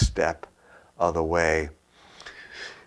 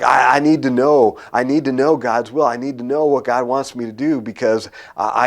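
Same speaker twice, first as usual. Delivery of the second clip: raised, pressing voice of mild panic; worked-up, insistent retelling; retold near panic; 3 semitones higher, 3 dB louder than usual. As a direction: re-enact an agitated plea, pitch up. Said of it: "I'm in a near panic".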